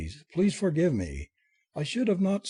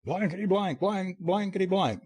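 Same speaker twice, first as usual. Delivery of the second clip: mock roar; 6 semitones higher than usual. A narrator's reading. Chester cursing in front of Felicia, high contained roar. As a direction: roar out censored curses at narrator's volume. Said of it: "roared Chester in part".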